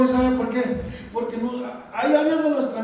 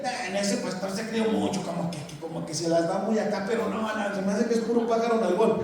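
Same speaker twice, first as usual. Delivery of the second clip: quieter, lower sneering gossip voice; mock gossip; 3 semitones lower, 4 dB quieter than usual. Preacher mimics a gossiping churchgoer, sneering. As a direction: imitate a snide churchgoer whispering gossip.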